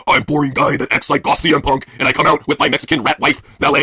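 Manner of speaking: slow, dopey mock wrestler voice; a lazy, sluggish parody of a boring guy; mocking impression. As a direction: dumb it down like a dull wrestler.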